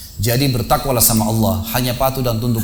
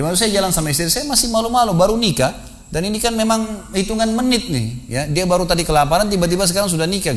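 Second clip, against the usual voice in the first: shy newlywed retelling; 8 semitones higher than usual. Retold or imitated. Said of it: "Dia, dia ceritain".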